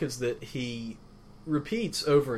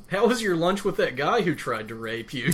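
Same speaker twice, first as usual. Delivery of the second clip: mock innocent question; 5 semitones higher, 4 dB louder than usual. Sarcastic rewording of Kate's question.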